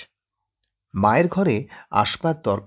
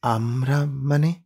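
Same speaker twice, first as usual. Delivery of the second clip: startled question; 4 semitones higher, slower than usual. Acted. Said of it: "আরেকবার চমকে উঠে বলেন".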